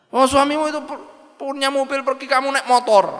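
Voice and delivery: high, needling voice; mocking busybody. Busybody taunting the wife about her husband's car, high and needling. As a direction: rub it in that she rides a motorbike. Busybody mocks wife's motorbike.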